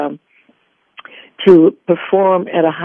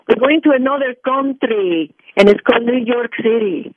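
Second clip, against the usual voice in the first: higher-pitched imitation of mom's Puerto Rican accent; mom's Puerto Rican-accented English, pitched up; 4 semitones higher than usual. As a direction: quote mom in her Puerto Rican accent. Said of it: "do your mom's accent".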